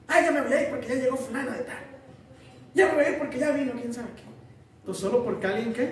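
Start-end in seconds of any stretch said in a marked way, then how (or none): 0.1-4.2 annoyed complaint. Acted. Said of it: "la presencia de una persona le molesta".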